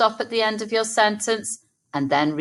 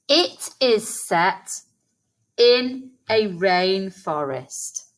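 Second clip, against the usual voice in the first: slow, chunked into two parts; slow chunked model sentence; slower than usual. Shown as a demonstration. Teacher modelling the sentence slowly for children to repeat. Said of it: "Let's say that together".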